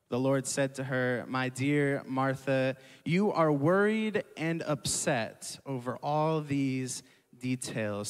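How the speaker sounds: slow, measured Bible reading; scripture reading. Acted. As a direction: read the passage to the church deliberately. Reads scripture aloud to congregation.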